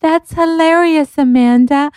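high, gushing imitation, drawn-out words; imitating Court. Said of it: "And she's so like".

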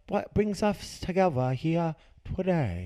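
slow, high announcer tone; radio voice. Pretend. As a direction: play the smooth radio host. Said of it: "my radio voice".

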